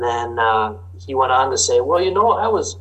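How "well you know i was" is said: higher southern farmer drawl. Retold or imitated. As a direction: tell it like a southern farmer complaining. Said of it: "I apologize for my southern drawl and impersonation".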